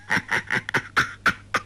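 breathy sinister laughing under the breath; eerie chuckle. A narrator's reading. Villain chuckling menacingly at the trapped girl, soft eerie laugh. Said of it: "连声怪笑".

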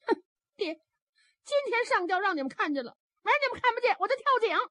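high, tearful sobbing protest; a rescued girl sobbing to her father; crying daughter. Acted. 上吊获救的姑娘哭着说. (姑娘带着哭腔向父亲哭诉)

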